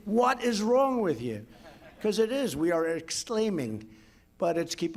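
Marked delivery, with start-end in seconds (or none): 0.1-1.4 higher, slow, exasperated retort; mock exasperation. Retort to critics dropping the exclamation point, exasperated. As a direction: act baffled at the critics. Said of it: "I say".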